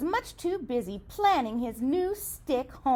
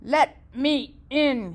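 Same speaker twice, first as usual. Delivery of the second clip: growling wolf; 4 dB louder than usual. Acted. Wolf at the door, lightly growled. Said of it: "he growled".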